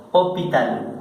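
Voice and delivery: "hospital" sin pronunciar la S, o-pi-tal; S muda. Shown as a demonstration. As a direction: say "hospital" the French way, dropping the S. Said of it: "quitaron la S". ("hospital" con la ese muda, o-pi-tal)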